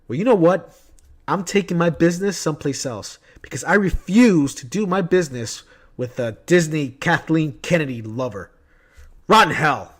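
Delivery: mock tirade of a customer taking offence; retold angry outburst. Disgruntled customer telling off the shop worker over a movie, mock angry. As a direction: imitate an indignant customer, punching the last words.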